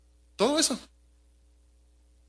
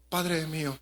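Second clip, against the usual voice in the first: soft, hushed "Padre mío", head bowed; quiet, downcast; 3 semitones lower, 5 dB quieter, slower than usual. Shown as a demonstration. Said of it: "romántico, o silencio, cabizbajo".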